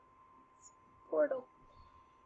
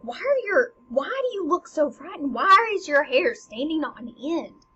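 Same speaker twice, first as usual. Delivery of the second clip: alarmed questioning; 3 semitones higher, 5 dB louder than usual. Acted. Queen questions frightened-looking son.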